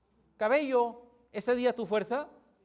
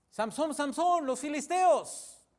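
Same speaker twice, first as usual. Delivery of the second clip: high, drawn-out mock alarm; acted warning cry; 4 semitones higher, slower than usual. Dalila wakes Samsón as enemies come, acted warning cry. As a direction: call out a warning, stretching the end.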